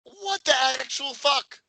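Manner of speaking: high, stunned disbelief; shocked high outrage; incredulous. Real, not acted. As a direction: pitch it up in utter disbelief. Outraged at plot.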